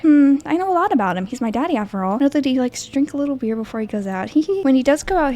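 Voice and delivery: put-on high, sweet little girl asking for daddy; timid child's voice, pitched high. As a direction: play a scared small child at the door.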